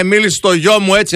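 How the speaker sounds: hammed-up protective parent; mock indignant parent. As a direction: play a parent scolding the teacher. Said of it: "σου λένε".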